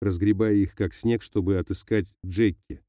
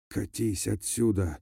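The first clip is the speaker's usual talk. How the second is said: wheezed, softer and slow; hoarse wheeze; 5 dB quieter, slower than usual. A narrator's reading. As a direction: push the words out through a failing throat. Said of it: "прохрипел Карим".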